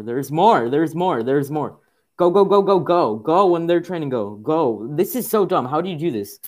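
loud, high, rapid-fire shouting; frantic urging. Real, not acted. Player urges game characters to go, frantic shouting. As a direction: holler them onward in rising frustration.

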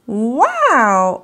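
excited yell. Acted. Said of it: "Oscar yelled".

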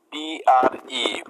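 প্রতিটি অক্ষর আলাদা করে ধীরে বলা; পিআরই অক্ষর ধরে ধরে ধীরে বলুন; letters spelled out. Shown as a demonstration. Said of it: "এবার তার পরের শব্দটি দেখুন". (অক্ষর ধরে ধীরে বানান)

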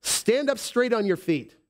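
high, bold command; commanding shout. Acted. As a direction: declare it with authority. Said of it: "said with a loud voice".

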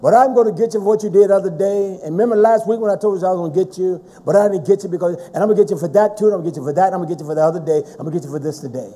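rapid-fire scolding, running on and on; scolding granny. Acted. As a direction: rattle off every old offence like a granny. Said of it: "As Granny would say".

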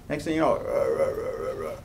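slow, creaky demonstration of a failing voice; mock croaky voice. Shown as a demonstration. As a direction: imitate a voice breaking up into croaks. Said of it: "my voice gets croaky".

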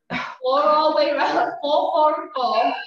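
loud, effortful counting; strained counting. Real, not acted. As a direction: push the count out through effort. Instructor counting through exercise pain.

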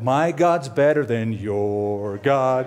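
slow, drawn-out schoolyard boast; mock boast between rival gods; childish taunt. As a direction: taunt it like a kid on a playground. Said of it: "It's like".

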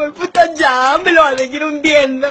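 high, alarmed complaint; dismayed woman realizes he will keep going; alarmed squeal. Retold or imitated. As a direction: brace yourself, half panicked. Alarmed in bed.

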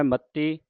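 "ਮੱਤੀ" with a held double t; tight doubled t. Shown as a demonstration. Teacher demonstrates adhak, tight double t in "ਮੱਤੀ". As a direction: press hard on the t in "ਮੱਤੀ". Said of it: "ਅਧਿਕ ਲਾ ਕੇ ਉਚਾਰਨ".

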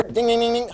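game show bell for a right answer; imitated bell. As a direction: sound the correct-answer bell by mouth.

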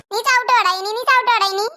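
angry threat. Acted. Mother threatens son.

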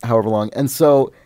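ordinary delivery

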